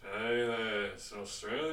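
badly faked Aussie that slides toward Liverpool; attempted Australian accent. Friend asked to do an Aussie, unconvincing Australian accent. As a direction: try an Australian accent and miss. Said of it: "Do an Aussie".

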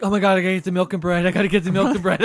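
fast frantic repeating; panicked. Retold or imitated. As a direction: rattle it off in a panic. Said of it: "They probably were like".

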